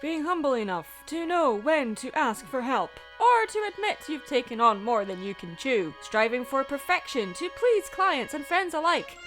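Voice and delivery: halting, grandly theatrical oration; William Shatner. Acted. Host musing on delegation, grand Shatner-style delivery. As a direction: pause dramatically between phrases, building in force. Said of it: "I went on William Shatner there".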